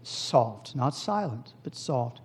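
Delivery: demonstrating a soft prayer voice. Shown as a demonstration. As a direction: drop the voice down on "soft". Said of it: "gonna pray soft".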